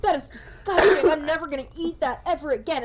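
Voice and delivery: mock disgust. TikTok guy sick of chicken parmesan, mock disgusted. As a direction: groan it out like the dish makes you sick.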